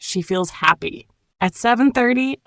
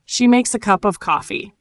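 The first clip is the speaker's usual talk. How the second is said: a little slower, measured and clear; nice and slow. Shown as a demonstration. Teacher has learners repeat after her, nice and slow. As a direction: ease through it at a learner's pace. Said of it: "Nice and slow now".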